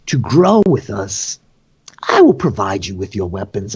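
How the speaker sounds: lightly voiced gracious host; Vergen. Host answering prisoner Poe's plea for weapons, mildly grand and gracious. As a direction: grant a favour with theatrical magnanimity.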